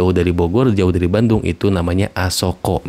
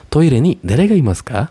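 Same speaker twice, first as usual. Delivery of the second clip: calling to the toilet; 6 semitones higher than usual. Shown as a demonstration. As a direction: call out to whoever is inside. Model question at toilet.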